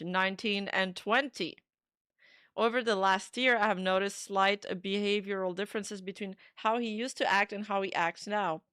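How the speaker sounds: fast, upbeat YouTuber read. Pretend. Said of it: "I'm gonna take my best YouTuber voice".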